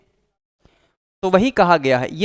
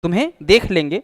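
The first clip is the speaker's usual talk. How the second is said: mock threat; faster than usual. Shown as a demonstration. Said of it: "ये प्रतिशोध दर्शाता है".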